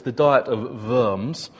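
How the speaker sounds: "the Diet of Worms" with German accent, Worms said as Vorms; lightly German "Diet of Worms". Shown as a demonstration. Preacher showing congregation the German way, light German accent. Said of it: "you have to say it with a German accent".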